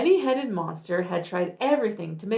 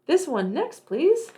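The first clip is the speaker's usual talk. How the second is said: eager monster; 7 semitones higher, 4 dB louder than usual. Acted. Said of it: "monster asks eagerly".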